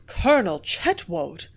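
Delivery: stunned slow exclamation of "Colonel Chetwoad!"; gasped. A narrator's reading. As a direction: let "Colonel Chetwoad!" drop out in shock. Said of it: "I gasped".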